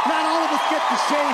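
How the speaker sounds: indignant shout driving the point home; loud outburst. Real, not acted. Ranting about racism, climax.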